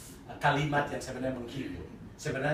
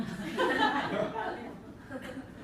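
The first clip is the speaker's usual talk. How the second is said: breathy laugh; 14 semitones higher than usual. Real, not acted. Preacher laughing at his joke.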